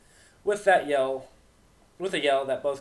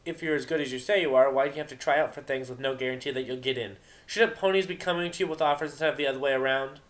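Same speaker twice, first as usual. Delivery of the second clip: taunting Vinyl; 4 semitones higher, 4 dB louder than usual. Acted.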